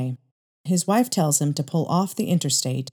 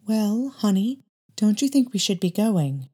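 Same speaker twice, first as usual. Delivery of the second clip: higher mother's voice, uneasy; mother urging to leave; 5 semitones higher than usual. Acted. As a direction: nudge the husband to go, higher. Uneasy mother urges leaving.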